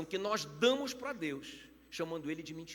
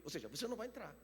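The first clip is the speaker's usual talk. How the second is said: frase dita baixo; 8 dB quieter, faster than usual. Shown as a demonstration. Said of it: "repete a sentença".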